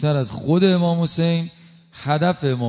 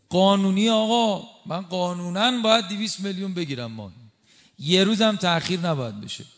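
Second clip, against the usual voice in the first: mock official; 5 semitones higher than usual. Mocking an official's claim.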